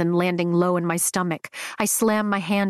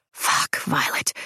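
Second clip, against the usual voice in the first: slow, strained, breathless curse; strained whisper; 5 semitones lower than usual. A narrator's reading. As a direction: push it out through held-back desire. Strained whisper while being touched.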